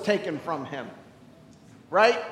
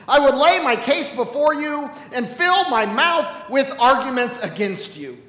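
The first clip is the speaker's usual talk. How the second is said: loud, raised cry of protest to God; bitter complaint; 4 semitones higher, 5 dB louder than usual. Acted. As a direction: hurl the complaint upward, louder. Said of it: "He says".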